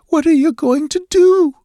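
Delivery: high, loud frightened plea; begging. A narrator's reading. Cowering captive demands to know her fate, begging in fear. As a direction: beg in panic, pitched right up. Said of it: "she begged".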